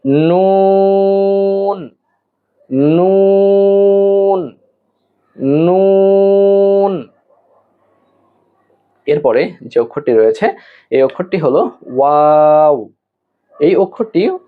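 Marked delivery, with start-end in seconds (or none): 0.1-7.1 নুন with tongue tip to palate, long higher oo; tongue-tip n sound. Shown as a demonstration. Teacher demonstrating the letter after explaining tongue position, নুন drawn out. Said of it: "যেমন আমরা উচ্চারণ করি". 12.0-12.9 ওয়াও from both lips, vowel lengthened; two-lip w sound. Shown as a demonstration. Teacher introducing a letter made with the lips, ওয়াও drawn out. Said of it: "দুই ঠোঁট হতে উচ্চারণ করতে হবে".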